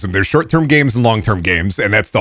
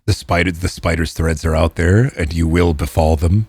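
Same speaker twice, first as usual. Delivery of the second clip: ominous low pronouncement; 5 semitones lower than usual. Acted.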